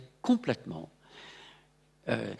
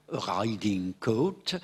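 put-on riding coat with a French accent, r rolled in the throat; gallicised English riding coat; 3 semitones lower, much slower than usual. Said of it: "sans doute que les Français disaient".

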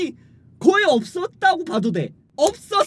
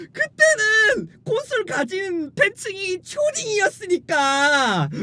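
laughing while talking; 6 semitones higher, slower than usual. Real, not acted. Laughing at own joke.

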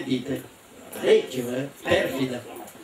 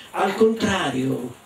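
obiezione lenta e allungata; grido contenuto; 3 semitones higher, slower than usual. Acted. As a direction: contraddici gli altri allungando le parole. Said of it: "gridò Joseph". (grido accennato, tirato per le lunghe)

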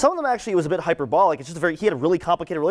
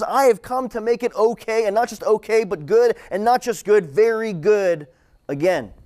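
voice of God; 5 semitones higher than usual. Acted. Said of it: "God says".

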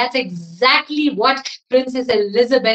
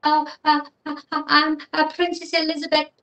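nervous stammer; 4 semitones higher, 4 dB quieter, much faster than usual. Acted. Princess stammers at dragon.

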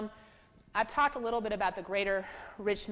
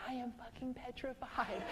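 half-laughed, softer admission; laughing confession; 6 semitones higher, 3 dB quieter than usual. Retold or imitated. Therapist admitting to the grandma, laughing, that she is petrified.

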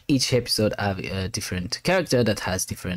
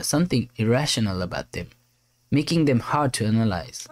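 tag; 5 semitones higher than usual. Acted. Voices captain and helper's dialogue.

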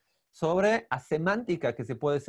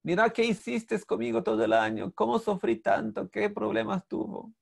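mock wailing; 5 semitones higher than usual. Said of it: "Y lloró, lloró".

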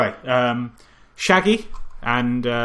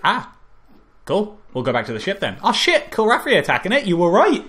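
mild hammed-up surprise, pitch jumping high at the attack; lightly voiced crew going from casual to startled; mock crew reaction; 7 semitones higher than usual.

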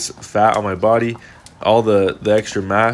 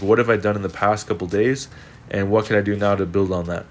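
stuffy, blocked nose; congested. Real, not acted. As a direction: speak through a blocked nose. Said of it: "sorry, I'm a little bit congested".

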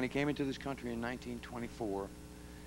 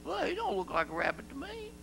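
hick voice. Retold or imitated. Quoting a doubter of his name.

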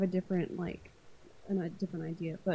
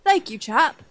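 mock posh British accent, louder; a hammed-up British gent thanking politely; 3 semitones higher, 10 dB louder, slower than usual. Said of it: "I like the British twist on that as well".

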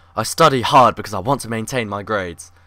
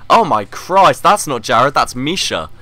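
startled relief; 3 semitones higher, 5 dB louder, slower than usual. Real, not acted. Player sees the newcomer isn't Jared, surprised outburst. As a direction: jolt up at the sight.

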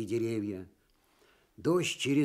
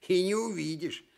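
smirking; 7 semitones higher than usual. Acted. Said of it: "ухмыльнулся медведь".

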